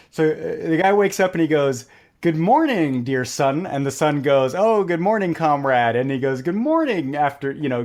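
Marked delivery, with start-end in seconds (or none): 2.2-3.7 lightly sung-out hello, pitch lifted then falling; cheery greeting. Acted. Acted greeting in a retold joke. 4.6-6.0 higher-pitched opening, lightly acted; mock-friendly greeting back to a comrade; cheery reply. The sun answers in the joke. 6.4-7.2 high, lilting mock hello; cheery greeting. Greeting repeated in the joke.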